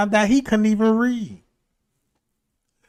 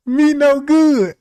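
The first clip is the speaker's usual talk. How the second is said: broken English; 5 semitones higher, 7 dB louder, much slower than usual. Retold or imitated. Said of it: "he said".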